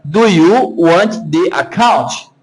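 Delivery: "Do you want the account" word by word, slowly, in Brazilian sounds; slow spelling reading of "Do you want the account"; read as written. Shown as a demonstration. Teacher shows traditional Brazilian schoolroom reading, read as written. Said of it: "como tá escrito, vai ficar".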